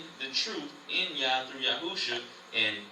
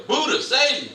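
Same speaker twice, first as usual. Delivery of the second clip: loud, higher laughing mock cry; mock plea; 9 semitones higher, 7 dB louder than usual. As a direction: plead in jest, laughing. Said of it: "what's another one".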